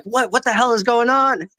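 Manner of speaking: high, exasperated what-the-hell; mock baffled outburst; bewildered. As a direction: play the confused guy being driven nuts. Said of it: "He's like".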